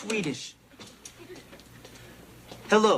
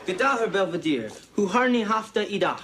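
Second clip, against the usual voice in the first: clumsy Swedish. Acted. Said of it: "Don't talk with your mouth full".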